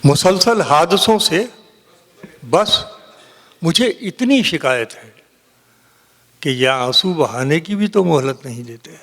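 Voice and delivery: measured mushaira recital with long pauses; poetry recitation. Acted. Poet reciting a couplet to a mushaira audience, declaimed. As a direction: recite the verse phrase by phrase.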